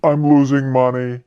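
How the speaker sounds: slow, drawn-out cry of mock panic; hammed-up dismay at a loss; mock freak-out. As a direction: imitate an investor freaking out, stretching the words. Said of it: "completely freaks out and goes".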